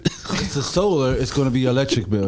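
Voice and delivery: sleazy salesman. Retold or imitated. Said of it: "He sound like he was auditioning to be a salesman".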